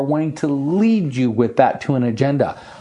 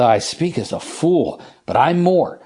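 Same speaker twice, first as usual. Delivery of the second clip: reluctant, drawn-out embarrassed admission; mock embarrassment; 2 semitones higher than usual. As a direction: act sheepish, slowing right down on the confession. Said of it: "And he's embarrassed. He said".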